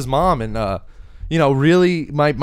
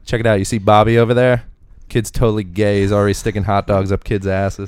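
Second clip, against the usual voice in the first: lower-voiced mock onlooker; gossiping dad; 6 semitones lower than usual. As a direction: lightly imitate a dad pointing out a kid. Acting out dads gossiping about Bobby.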